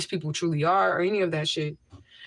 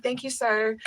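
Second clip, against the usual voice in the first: sweet politeness; 5 semitones higher, slower than usual. Acted. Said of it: "that's how I talk to people".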